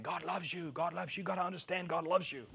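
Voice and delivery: mildly mocking, repetitive insistence. Preacher imitates everybody banging on the same issue, repetitive insistence. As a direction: imitate someone banging on about one point. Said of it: "the same issue over and over again".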